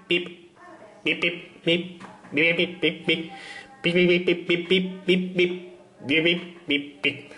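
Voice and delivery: soft, repeated robot pips; robot beeps. Pretend. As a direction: beep like a little robot. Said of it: "lo he hecho en plan robot". (pitidos suaves de robot)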